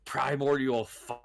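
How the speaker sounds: robotic, glitchy connection; words chopping out like bad signal; radio breaking up. Real, not acted. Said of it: "you're turning to, like, a robot".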